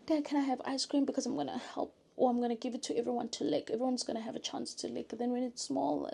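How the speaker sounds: high, rapid rambling plea; child pleading with dad. Acted. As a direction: bargain like a kid, words tumbling out quickly. Acting out a child asking dad.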